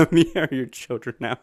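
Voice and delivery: odd put-on monster voice; eerie robotic creature line; creepy animatronic voice.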